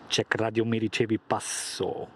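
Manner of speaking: radio call, clipped and loud; over walkie talkie. Pretend. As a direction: call it into a handset.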